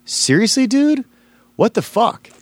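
mock outrage, high and sharp, at the talent booker; retold furious outburst. MC confronting the booker who berated a comic, retold as a high mock outburst. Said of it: "like, infuriated at him".

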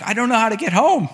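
high, loud mock wail; retold bawling child. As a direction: imitate a kid crying out in panic. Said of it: "I'm just bawling".

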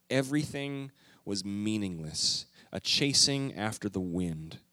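measured, slowing Bible reading that sinks toward the end; scripture reading. Acted. Preacher reading Ecclesiastes to the congregation, measured.

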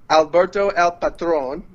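Patron as "pa-TRONE", with a flourish; corrected pronunciation. Shown as a demonstration. Co-host showing the host how it's said, corrected pronunciation. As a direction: announce Alberto El Patron, landing on a long final "trone". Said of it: "you pronounced it wrong".

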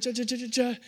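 high, rapid repeated syllables; imitated running noise. Child running to Dad, imitated scampering sound. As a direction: mimic little feet scampering. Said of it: "and I start running".

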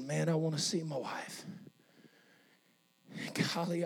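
low, soft inner thoughts with long pauses; acted tender, private musing; hushed longing. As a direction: think aloud quietly, halting between phrases. Leper's private thoughts, voiced softly.

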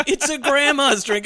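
high, drawn-out jeer; exaggerated taunt; mock teasing. Retells people teasing him.

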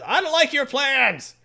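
high, loud, slow exasperated shout; gruff complaint. Retold or imitated. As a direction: bellow it as a fed-up Wolverine. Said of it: "Wolverine says".

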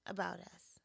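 whisper. Real, not acted. Whispered ending.

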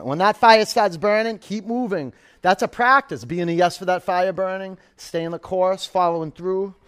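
rally them through the burn; energized coaching. Real, not acted. Pep talk during bicycle crunches.

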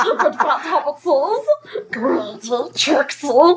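slow, lightly voiced creepy creature; a hint of a creepy Smeagol; Gollum impression. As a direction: hiss it out like Gollum. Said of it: "creepy, okay impression of Smeagol".

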